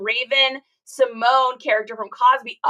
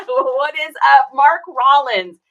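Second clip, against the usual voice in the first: loud drawn-out greeting; 2 semitones higher, 9 dB louder, slower than usual. Real, not acted. Greeting viewer loudly.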